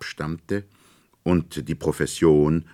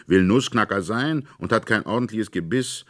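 put-on scornful boy; 6 semitones higher, 5 dB louder than usual. A narrator's reading. Fritz scolds the nutcracker.

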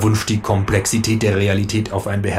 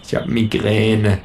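gepresst; slower than usual. A narrator's reading. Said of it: "presse ich wenig erheitert zwischen meinen Zähnen hervor".

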